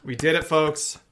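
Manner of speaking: loud town crier proclaiming good news; mock-triumphant announcement. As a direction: announce it big, like after a fanfare. Mock-triumphant announcement after horn fanfare.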